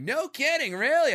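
famous comic hearing a fan's pitch, high mock amazement; imitating Norm Macdonald. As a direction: squeak it up in hammed-up disbelief. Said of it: "It's like".

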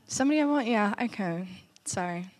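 choking. Real, not acted. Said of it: "choking the whole time".

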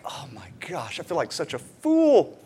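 breathy whisper of dawning shame; mock whisper of someone realising their folly; whispered regret. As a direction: whisper it, mortified. Embarrassed after blowing up.

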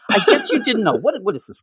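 a teasing quote broken by laughter; laughing through it. Retold or imitated. Reader retelling Moy's brag to a friend, laughing. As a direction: chuckle while mimicking the boast. Mocking a one-upper's brag.

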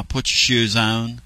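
put-on slow, drawn-out Southern accent; gently stretched country accent; wife's country accent. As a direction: imitate her Tennessee drawl, unhurried. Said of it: "She'll give you a gone".

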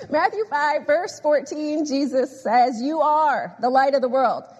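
firm, emphatic scripture citation. Real, not acted. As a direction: declare "You are the light of the world" with weight on each phrase. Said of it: "I'll try not to get too emphatic".

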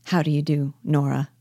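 subdued, timid greeting; understated dejection, falling away at the end; dejected and timid. Acted. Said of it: "in a dejected and timid voice".

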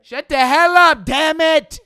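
full-out angry yell, re-enacted; high, very loud exasperated shout. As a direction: bellow at an unruly class. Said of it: "had me raise my voice a little bit".

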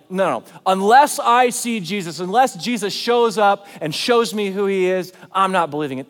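loud, insistent refusal; stubborn attitude. Acted. Doubting Thomas refusing to believe, mock stubborn attitude. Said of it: "Thomas's attitude is not like".

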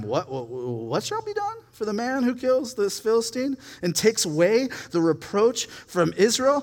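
incredulous young David, lightly acted; eager questioning.

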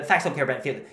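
lightly put-on American accent on the catchphrase; Ben Shapiro American accent. Vlogger retrying a pundit's catchphrase, hint of American accent. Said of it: "say it fast and have a, uh, have a little American accent".

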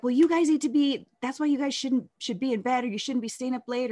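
high, loud scolding aunt voice; mock angry aunt. The aunt scolding the kids to get to bed, mock angry. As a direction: snap at the kids like the irritated aunt. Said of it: "she got mad at me".

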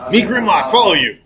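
dim-witted creature following along; monster voice. Acted. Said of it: "another voice saying".

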